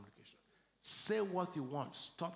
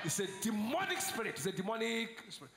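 preaching shout; 4 semitones higher than usual. Real, not acted. Preacher rebuking the demonic spirit, shouting. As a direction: thunder it like a rebuke.

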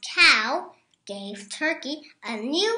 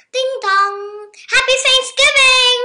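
high, loud, fast; disguised turkey at the door, cheerful; cheery greeting; 11 semitones higher, 12 dB louder than usual. A narrator's reading. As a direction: announce it brightly. Disguised Turkey as pizza man.

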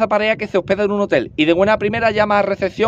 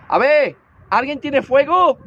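calling out; 5 semitones higher, much slower than usual. Acted. Pidiendo fuego a todo el avión.

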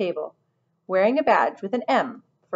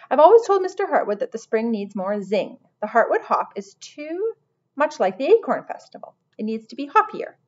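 lightly voiced fussy manager, higher pitched; self-important lizard manager; 3 semitones higher, 4 dB louder than usual. Lizard manager faulting the spring hop, self-importantly. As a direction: complain with a touch of pomp.

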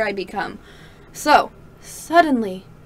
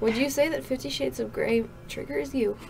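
put-on Irish accent; 9 dB quieter than usual. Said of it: "sounded like you went to, like, an Irish accent".

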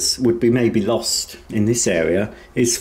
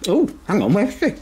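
high worried voice; 10 semitones higher than usual. Real, not acted. Searching for the dog.

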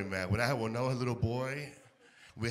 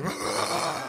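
imitated barking. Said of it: "He barked like this".

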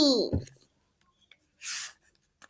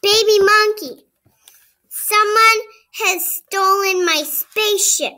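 a higher, pleading voice calling for help; upset character voice; 4 semitones higher, 4 dB louder than usual. Acted. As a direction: beg baby monkey to find the nose. Character asks monkey for help.

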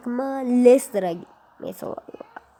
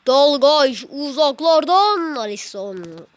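excited call; 4 semitones higher, 4 dB louder, slower than usual. Pretend. Excited commentary shout.

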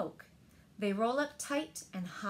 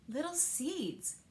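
tender wonder; 5 semitones higher, slower than usual. A narrator's reading. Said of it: "he said".

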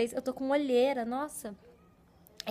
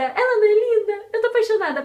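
excited; 8 semitones higher, 6 dB louder than usual. Real, not acted. Showing off a gifted t-shirt.

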